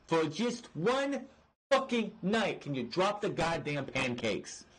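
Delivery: real exasperation, stretching out the plea; exasperated plea. Real, not acted. Fan begging Kofi to get serious for one night, exasperated.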